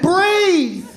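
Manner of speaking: high mock instruction, falling; breathe, said high and mocking; mock advice. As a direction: bark the advice like a nagging coach.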